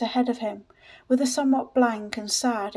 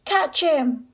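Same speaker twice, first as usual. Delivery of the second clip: higher, moderately raised call; crying out; 5 semitones higher, 4 dB louder than usual. A narrator's reading. Voice from the street heard above the others, crying out. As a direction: call out over a crowd. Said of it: "a voice from the street, heard above the others, cried".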